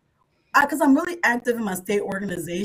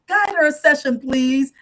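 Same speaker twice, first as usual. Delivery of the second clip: retelling her complaint; 3 semitones higher, 5 dB louder than usual. Retold or imitated. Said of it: "And I'm like".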